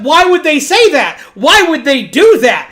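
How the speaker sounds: mock panicked pleading; freaking out. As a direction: act out a mild freak-out, apologizing. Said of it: "little pig girl freaks out".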